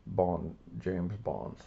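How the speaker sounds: slow, lightly British Bond line; a light nod to Roger Moore, slow; Roger Moore impression. The speaker recalling he sounded like Roger Moore, lightly British. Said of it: "more like Roger Moore".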